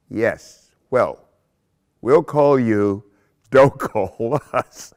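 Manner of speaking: mock casting-panel brush-off, drawn out; slow, loud retold audition rejection; obligatory brush-off. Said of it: "I heard the obligatory".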